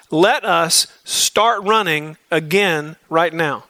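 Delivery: "Let us start running again right now" drawn out slowly, each word weighted; slow emphatic reading. Shown as a demonstration. Preacher to his men, reading the verse slowly and weighted. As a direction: spell out the literal meaning slowly. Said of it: "Here's how that literally reads".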